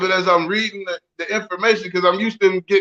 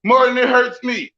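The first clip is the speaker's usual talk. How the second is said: lightly voiced mama, higher; a hint of a scolding mother; quoting mama; 5 semitones higher than usual. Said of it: "your mama used to say".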